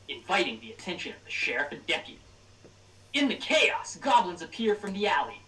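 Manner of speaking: dramatic storyteller narration; game master scene narration. Acted. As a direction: read it like an epic opening crawl. GM reads the campaign intro.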